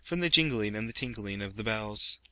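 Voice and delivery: measured, ringing poetry reading with swelling rhythm; poem recitation. A narrator's reading. LibriVox reader performing Poe's poem, in a ringing recitation. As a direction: recite the bells verse, rising and falling with each chime.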